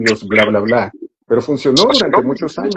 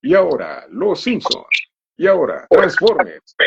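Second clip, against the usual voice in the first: imitación de locutor; 5 semitones higher than usual. Retold or imitated. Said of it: "aquellos anuncios que decían".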